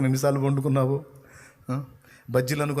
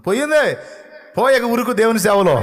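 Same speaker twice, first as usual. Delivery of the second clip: much higher and loud, triumphant cry; exultant shout; 8 semitones higher, 6 dB louder than usual. Real, not acted. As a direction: shout the victory. Preacher exults about healing. (ఉత్సాహంగా పెద్ద అరుపు)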